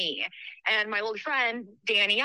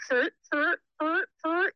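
higher voiced mock creak of a rocking chair; creaking chair imitation; 8 semitones higher, slower than usual. Imitating the haunted rocking chair creaking. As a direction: imitate the old chair squeaking as it rocks. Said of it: "you could hear just someone go".

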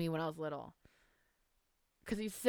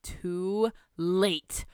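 triumphant villain cry. Acted. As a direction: cry out as you pounce on your prey. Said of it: "cried Missus Moonlight".

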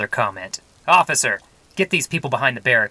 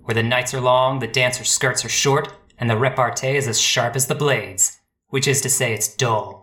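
hard-boiled narration. A narrator's reading. Detective narrating his past in a brooding noir voice-over. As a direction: brood over the memories like a tired gumshoe.

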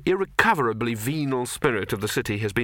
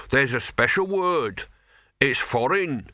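fishwife; 2 semitones higher, slower than usual. Acted. Fishwife speaks.

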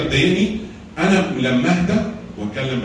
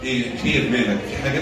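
smiling calm; 3 semitones lower, 4 dB quieter than usual. Shown as a demonstration. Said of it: "وابتسم له كده".

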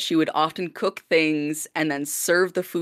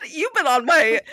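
high, loud appalled repeat; retold shocked disbelief; 10 semitones higher, 5 dB louder than usual. Lodger repeating discovery about roommate's night visits, shocked disbelief. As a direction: exclaim it high, breaking off unfinished.

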